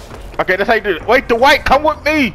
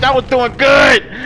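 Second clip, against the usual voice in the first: tag; 4 semitones higher, much slower than usual. Real, not acted. Protests being killed in game.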